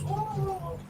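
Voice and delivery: high, yelping mock dog "Whoa"; dog's reply. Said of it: "And he goes".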